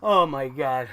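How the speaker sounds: low, soft exhausted sigh after ranting; spent, sighing after the rant; weary sigh. Real, not acted. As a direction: deflate with a tired groan. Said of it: "there's my little rant".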